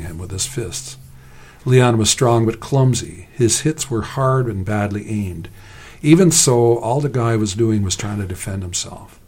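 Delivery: measured story reading voice; story narration. A narrator's reading. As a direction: read the fight as a told story.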